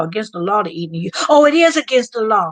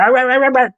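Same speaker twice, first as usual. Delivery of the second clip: mock dog barking; 3 semitones higher, 6 dB louder, faster than usual. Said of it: "start barking".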